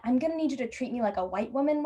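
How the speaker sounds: quick, mildly acted demand; lightly voiced entitled customer; entitled hinting. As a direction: press the point politely. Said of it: "I trail off in that".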